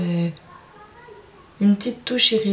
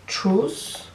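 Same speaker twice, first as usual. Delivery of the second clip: English accent; 2 semitones higher than usual. Real, not acted. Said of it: "Désolée pour mon accent anglais".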